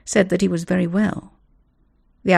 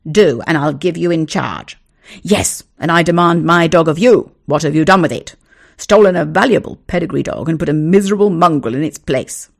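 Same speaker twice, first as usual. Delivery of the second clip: angry threat; 6 dB louder than usual. Acted. Quarrel continues.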